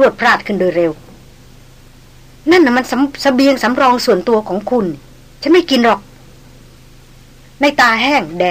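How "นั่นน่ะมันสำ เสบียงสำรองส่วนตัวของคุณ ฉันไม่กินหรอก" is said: raised, higher noblewoman voice refusing; lightly voiced young noblewoman, startled and proud; Darin's refusal. Noblewoman refusing the hunter's soup, startled and proud.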